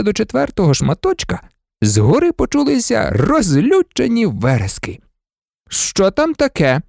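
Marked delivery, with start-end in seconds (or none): 5.7-6.8 worried higher-pitched question; alarmed. A narrator's reading. Nurse hearing shouts outside the ward, alarmed. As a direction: ask it in rising alarm. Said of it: "стурбувалася мадам Помфрі".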